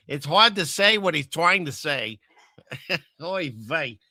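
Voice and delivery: lightly hammed-up Jewish accent; a hint of put-on Yiddish-style Jewish accent; fake Jewish accent. Shown as a demonstration. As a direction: try a mock Jewish accent, playfully half-hearted. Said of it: "I can't even do a fake Jewish accent".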